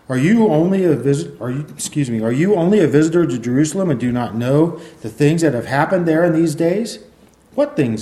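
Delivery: projected, emphatic Bible reading; scripture reading. Acted. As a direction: read the passage out clearly to a congregation. Reads scripture aloud to congregation.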